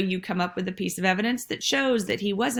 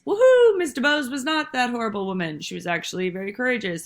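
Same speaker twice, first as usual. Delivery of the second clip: mock whoop, much higher and louder, then fast and settling; playful cheer; 4 semitones higher, 4 dB louder than usual. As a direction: cheer like a reader whose view just flipped. Reader's changed view, acted out.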